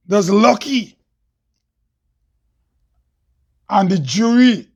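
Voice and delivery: measured spoken-word delivery, line by line with long pauses; declaimed poem, key phrases lifted; poem recital. Acted. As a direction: recite each line deliberately, leaving space after it.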